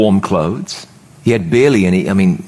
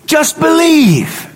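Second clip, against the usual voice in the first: Jesus's gentle words; slower than usual. Retold or imitated. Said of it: "And Jesus says".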